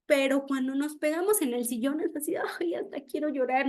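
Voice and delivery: susurro de dolor. Pretend. Dolor fingido al golpearse el dedo.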